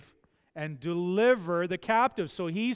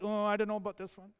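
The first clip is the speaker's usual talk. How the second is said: unsure listener; 3 semitones higher, 4 dB quieter, much faster than usual. Acted. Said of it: "'cause you're like".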